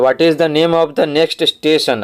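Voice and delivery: very slow, word by word, like reading to a class; slow dictation reading. Shown as a demonstration. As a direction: read it out slowly so pupils can follow. Teacher reads exercise sentence aloud.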